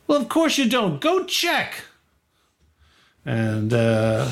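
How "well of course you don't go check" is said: high exasperated guard; high impatient guard voice. Acted. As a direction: roll your eyes and send him off. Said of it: "The guy's like".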